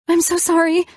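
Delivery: the apology cracks up into a wail; crying apology. A narrator's reading. Elena breaking down to Colin, high wailing sob. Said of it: "I started crying".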